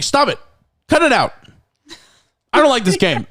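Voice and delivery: high-pitched, playful complaining; mock ticklish protest. Mushkin protesting while being eaten alive, mock ticklish whine. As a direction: imitate a victim protesting as if only being tickled. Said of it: "It's like somebody's tickling you".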